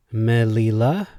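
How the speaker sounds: "Melila" with ME leading, questioning rise; MEH-lee-la?; stress on first syllable. Shown as a demonstration. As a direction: put the weight on "Me" in "Melila". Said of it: "Emphasis on the last".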